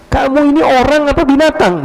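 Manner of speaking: high, indignant rebuke; angry retort. Retold or imitated. Sleeper rebuking the stranger who trod on him, indignant. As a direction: scold the one who stepped on him. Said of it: "Teriak dia".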